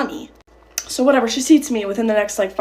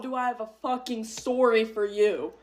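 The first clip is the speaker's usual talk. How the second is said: laughing intro; 3 semitones higher, much slower than usual. Real, not acted. Opening with a laugh.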